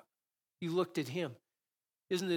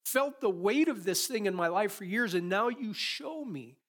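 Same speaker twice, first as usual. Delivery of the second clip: higher, louder thankful prayer; acted grateful prayer; 4 semitones higher, 3 dB louder than usual. Praying aloud to God after being corrected, in higher, louder thanks. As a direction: pour out thanks to God, raised up. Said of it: "I'm like".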